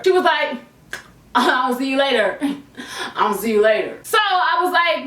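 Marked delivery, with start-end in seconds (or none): 1.0-4.0 teasing laughing goodbye. Retold or imitated. Friend laughing at her goodbye.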